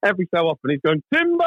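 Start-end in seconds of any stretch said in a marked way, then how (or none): 1.1-1.4 yelling timber. Retold or imitated. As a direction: belt out Timber as the tree comes down. Dad yelling as tree falls.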